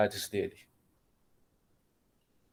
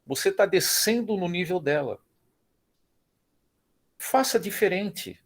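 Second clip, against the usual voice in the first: friend's advice; 7 semitones higher than usual. Retold or imitated. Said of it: "o amigo falou assim".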